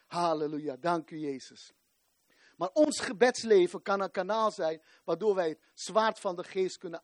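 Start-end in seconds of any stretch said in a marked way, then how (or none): 0.1-1.7 hushed praise. Real, not acted. Quiet praise after the shout.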